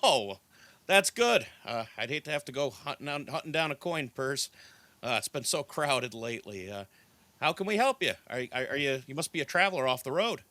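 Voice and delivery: put-on friendly, lively young barkeep with a smile; smiling innkeeper's welcome, bouncing up in pitch; warm welcome. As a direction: greet a traveler with lifted, chatty warmth. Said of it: "he smiles warmly".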